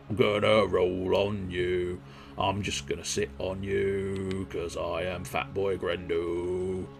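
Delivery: a hint of a slow, low, soft big brute; slow, lazy threat from a fat boy; lightly voiced Grendel. Speaking as Grendel to the enemy, slow low lazy menace.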